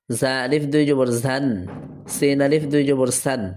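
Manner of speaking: even spelling recitation, ringing final n in "আন", "বান", "তান"; double-jabar tanween drill. Shown as a demonstration. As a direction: recite each line alike, landing on a held "সান". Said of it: "জবরের তানবিন দিয়ে এই দুইটা line বলে দিলাম".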